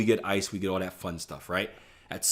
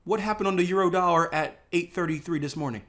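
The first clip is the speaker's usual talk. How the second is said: high, panicky babble; mock panic over a losing trade; frantic stammer, high-pitched; panicked trader; 8 semitones higher than usual. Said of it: "you're like".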